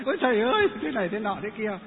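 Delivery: lightly acted crying plea; retold wailing. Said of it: "kêu khóc bu lu ba la".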